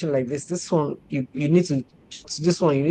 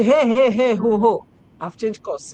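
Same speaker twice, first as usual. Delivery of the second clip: brisk eager call; 4 semitones higher, 6 dB louder than usual. Retold or imitated. Mimics a quick tennis person.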